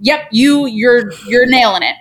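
acted-out approval of a hurt friend; mock validating friend. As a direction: back them up emphatically. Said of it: "fix acknowledges the knife".

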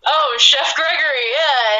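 high-pitched "oh" settling into recognition; acted realization. Band reacting to the stranger naming himself, acted realization. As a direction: play back a put-on reaction of recognition, starting high.

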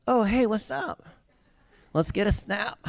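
high, perky mock hello; mock casual greeting. Preacher imagining a girl greeting an intruder, mock-perky and high. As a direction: pretend to be chummily delighted. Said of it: "Would you be going".

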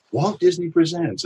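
rising, showy announcer line; announcer read. Shown as a demonstration. Voice actor demoing the trailer opener, announcer style. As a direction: open it like a trailer voice. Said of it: "And I will literally".

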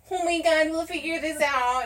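high, softened mock reassurance; sweet supportive girlfriend. Still your girlfriend on a prison call, imitated sweet reassurance. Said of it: "I was, like, still your girlfriend".

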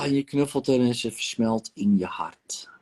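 hushed tender whisper. Acted. Therapist whispering to client hugging her inner child. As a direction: breathe it softly into the quiet.

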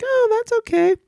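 high, light mock "oh, that's okay"; a breezy shrug of a reaction. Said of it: "It was like".

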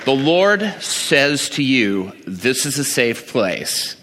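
slow, solemn pronouncement; preacher delivering a slow formal word from the Lord; mock prophetic word. Shown as a demonstration. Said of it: "I could have given her the word".

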